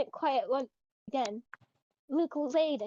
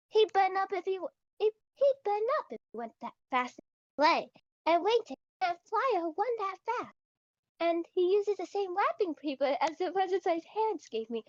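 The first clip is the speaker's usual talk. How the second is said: put-on failed British accent; 6 semitones higher than usual. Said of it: "British accent be not Britishing".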